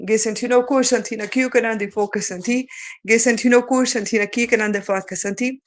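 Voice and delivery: rhythmic chanted light language. Acted. Speaker channeling light language to viewers, chanting. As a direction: channel it like a sacred tongue.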